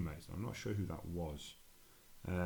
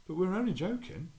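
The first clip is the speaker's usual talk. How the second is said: pleading mate; 11 semitones higher, 4 dB louder than usual. Retold or imitated. Mate pleading in retold story.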